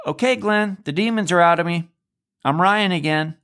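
high, mocking "demons are gone" to the roommate; sarcastic. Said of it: "I said it in a sarcastic tone".

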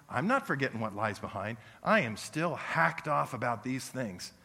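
hammed-up resentful congregant; mock grudge. Pastor imitating bitter members who won't let go, mock grudge. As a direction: play the stubborn grumbler. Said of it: "people here who go".

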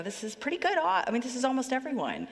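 lightly voiced shepherd pleased with his count; a hint of a self-satisfied shepherd; content shepherd. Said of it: "ninety-nine sheep and go".

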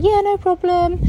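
high-pitched, easy-going yes; retold breezy agreement. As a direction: act out a willing helper.

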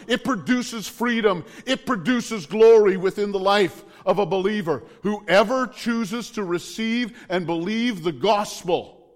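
high, driving sermon that sounds close to yelling; loud cheering preaching. Real, not acted. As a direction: cheer the gospel on, hammering each repeated phrase. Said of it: "if my voice gets loud and it sounds like I'm yelling".

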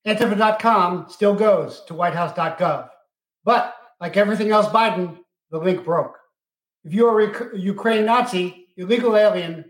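recorded hotline menu voice; phone menu voice. Acted. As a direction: read it like an automated phone menu. Mock White House hotline menu.

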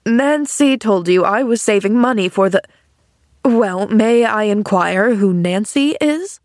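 lightly voiced incredulous man; John Pendleton. Man asking girl who Nancy is, incredulous. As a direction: question with pointed disbelief.

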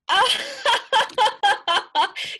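high, loud, mocking cackle; evil cackle. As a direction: cackle like wicked girls. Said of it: "the girls began to cackle".

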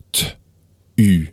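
t-u said as separate letters; spelled out letter by letter. Shown as a demonstration. Teacher spelling the word for learners, letter by letter. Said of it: "it's pronounced".

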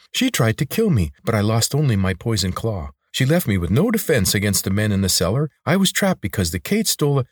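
lightly voiced creature, indignant; aggrieved lizard. Lizard tells Corvin of the attack, mildly aggrieved. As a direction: protest as a wronged little lizard.

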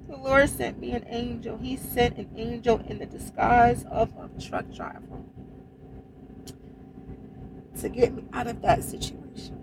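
soft, awed testimony; hushed gratitude. Real, not acted. Trucker reflecting on her rescue, hushed gratitude. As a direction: say it quietly, moved and thankful. Repeats it softly, moved and thankful.

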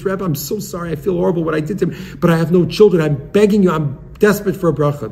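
retold plea from a childless man near tears, breaking into begging; tearful pleading. Childless man begs the Rebbe for a blessing, tearful and rising. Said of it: "He's tzibruch and he's crying".

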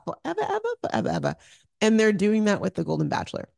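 hoarse raspy speaking voice. Real, not acted. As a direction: talk through a raspy throat. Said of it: "I'm sorry for the raspy voice".

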